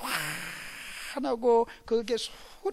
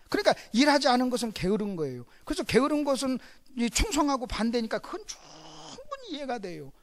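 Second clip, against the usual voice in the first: ordinary talk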